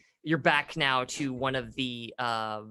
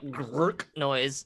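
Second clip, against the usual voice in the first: bone cracking noise. Shown as a demonstration. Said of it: "great sound effect".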